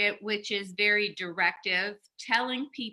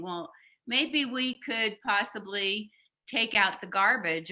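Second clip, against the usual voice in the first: tentative. Shown as a demonstration. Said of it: "in a very tentative way".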